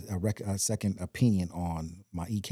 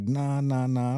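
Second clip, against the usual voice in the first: louder, higher, rapid-fire disbelief; retold dismissive cutting-in; 5 semitones higher, 6 dB louder, slower than usual. Grandmother rejecting his excuse, loud insistent disbelief. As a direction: imitate a grandmother not buying it.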